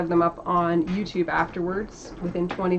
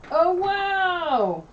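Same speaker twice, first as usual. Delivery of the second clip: delighted wow; 10 semitones higher, 4 dB louder than usual. Real, not acted. Seeing the finished drawing.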